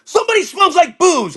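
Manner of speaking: high-pitched mock-angry accusation; hammed-up indignant sniffing-out of a culprit; Tim Burton. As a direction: screech it like an outraged director. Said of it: "he's getting all pissed off".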